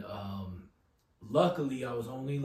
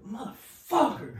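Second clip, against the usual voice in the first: muttered dad curse; 8 semitones higher, 4 dB louder, slower than usual. Retold or imitated. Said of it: "he was just like".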